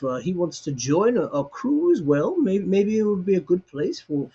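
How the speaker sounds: a hint of a chatty old cook; old cook Albert. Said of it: "he looks at you and goes".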